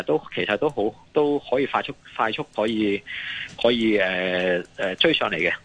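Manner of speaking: ordinary delivery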